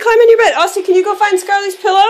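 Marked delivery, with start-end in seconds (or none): 0.0-0.5 firm urging. Real, not acted. Mom urging her toddler into the new bed, firmer. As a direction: coax her firmly into the bed.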